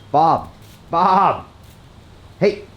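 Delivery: high call across the shop; calling the sheep. Real, not acted. Man calling his pet sheep Bob across the shop, high call.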